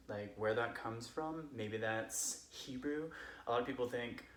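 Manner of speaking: put-on casual drunk Californian friend telling Bible stories; Californian accent. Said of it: "I'm going to tell them as a Californian would".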